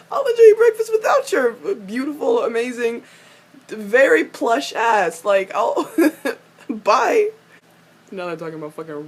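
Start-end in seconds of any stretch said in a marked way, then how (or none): 0.1-7.3 high sneering send-off broken by laughs; mocking sneer. Fan mocking Alec's parting line, laughing sneer. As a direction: sneer through giggles. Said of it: "meanest voice ever".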